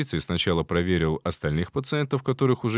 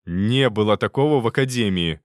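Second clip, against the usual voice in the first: louder, clipped denial; curt retort; 5 dB louder than usual. Acted. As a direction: cut him off flatly. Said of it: "отрезал Роман".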